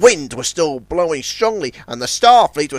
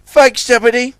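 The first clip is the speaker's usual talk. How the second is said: grateful higher thanks; warm thanks; 9 semitones higher, 6 dB louder than usual. A narrator's reading. Ten Cents thanking Zebedee warmly. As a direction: thank him kindly. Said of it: "said Ten Cents warmly".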